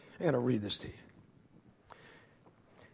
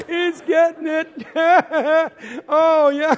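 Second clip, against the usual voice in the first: high cackling through the words; acted gleeful laughter; 8 semitones higher, 4 dB louder than usual. Kid enjoying brother's tumble, high mock cackling. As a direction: crow between hammed-up laughs. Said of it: "I am laughing".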